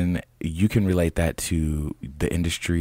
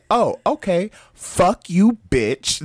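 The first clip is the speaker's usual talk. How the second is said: higher and louder, a mock furious curse; retold cussing out; 5 dB louder, slower than usual. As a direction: replay the curse with heat. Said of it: "I said".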